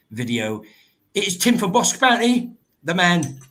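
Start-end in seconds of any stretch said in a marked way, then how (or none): 1.1-3.4 higher, louder hype for the legend; announcer intro. Acted. Host hyping his final guest to the chat, announcer style. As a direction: build the guest up like a headliner.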